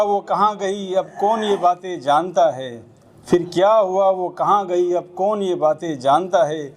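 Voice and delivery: Urdu narrative poem recited to an audience; measured spoken verse; poetry recitation. Acted.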